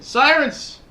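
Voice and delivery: high, loud whine of annoyance; high-pitched mock complaint; complaining wife. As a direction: imitate a wife griping at the noise. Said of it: "my wife, uh, complains about the sirens".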